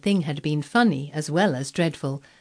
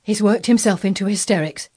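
flustered nurse, higher and louder; in a great hurry; 4 semitones higher, 6 dB louder than usual. A narrator's reading. Nurse begging a child for help, in a great hurry. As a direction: blurt it out, urgent and flustered. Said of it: "she said in a great hurry".

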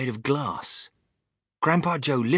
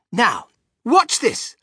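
eager showman; 10 semitones higher, 7 dB louder, slower than usual. Acted. Wonka builds suspense.

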